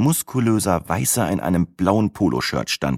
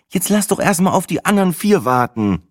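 higher, mildly irritated reply; a little annoyed; 12 semitones higher than usual. A narrator's reading. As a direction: brush him off, slightly fed up. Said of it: "erwiderte sie ein klein wenig genervt".

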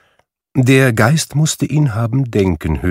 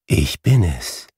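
gentle ghost voice; 4 semitones lower than usual. A narrator's reading. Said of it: "Die Stimme war sanft und wohlklingend und so leise".

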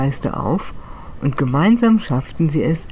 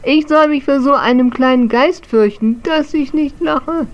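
much higher, louder, mocking old ghost; scornful laughing; 9 semitones higher, 4 dB louder than usual. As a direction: laugh the little one off. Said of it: "zum Lachen".

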